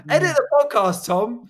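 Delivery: lightly hammed-up motivational order; mock motivator command. Bossing as Mister Motivator.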